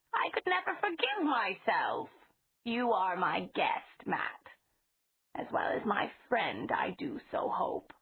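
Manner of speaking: a hint of an anxious grandmotherly voice; old lady, fretful. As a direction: gently fret over him like a fond elderly landlady. Mrs Flowers voiced in story.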